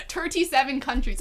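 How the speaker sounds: tentative mock Irish accent. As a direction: try out an Irish accent, amused. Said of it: "what do Irish people say?".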